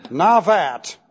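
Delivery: "Navat" said slowly and clearly as NAH-vaht, stress on the first syllable; Hebrew word. Shown as a demonstration. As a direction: pronounce "Navat" carefully for the class, stressing NAH. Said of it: "I'll give it to you in the Hebrew".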